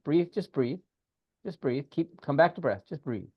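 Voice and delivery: calm breathing guidance; guided breathing. Acted. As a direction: talk them down gently into the breath. Guides client through breathing.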